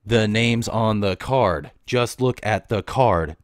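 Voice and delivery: mock-condescending repeat of the rude line; mocking the customer. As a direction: drag it out like a smug jerk. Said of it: "Instead of saying".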